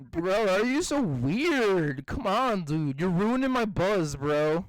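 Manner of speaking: slow, whiny stoner; stoned whine. Pretend. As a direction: complain your buzz is ruined. Mock stoned complaint.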